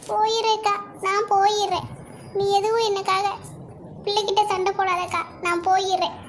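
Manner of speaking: subdued, tearful pleading; hurt, resigned plea. Acted. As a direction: give in to an elder sister, close to tears. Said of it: "இந்த நீலி கண்ணீர்லாம்".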